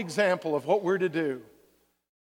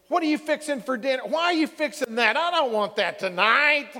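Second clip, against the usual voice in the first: irritated complaining; 3 semitones higher than usual. Retold or imitated. Spouse snapping about dinner at home.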